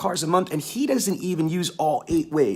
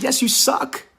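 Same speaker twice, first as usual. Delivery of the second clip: raised, insistent repeat; insisting; 10 semitones higher than usual. Retold or imitated. Speaker doubling down on the manager, higher and insistent. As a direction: say it again with conviction. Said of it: "I said".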